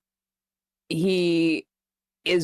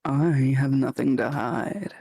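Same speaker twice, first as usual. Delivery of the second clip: mask voice; 5 semitones lower than usual. Acted. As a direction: speak low and hushed from behind a mask. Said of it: "mask voice again".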